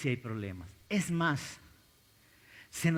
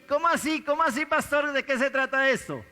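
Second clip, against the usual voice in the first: puzzled question; 10 semitones higher, 4 dB louder than usual. Acted. Preacher voices puzzled congregation member.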